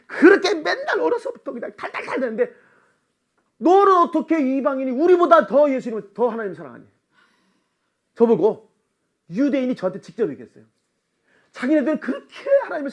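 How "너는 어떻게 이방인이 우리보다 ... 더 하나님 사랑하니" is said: quoting a Jewish friend. Retold or imitated. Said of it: "유대인들이 직접 저한테 그랬습니다".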